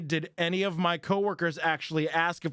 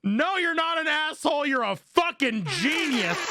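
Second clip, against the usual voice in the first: laughing delight; 9 semitones higher than usual. Real, not acted. Laughing verdict on post.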